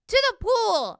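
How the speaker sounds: high, loud excited shout; high-pitched urgent holler; boy's yell. A narrator's reading. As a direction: yell it out high as an eager boy. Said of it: "I yelled".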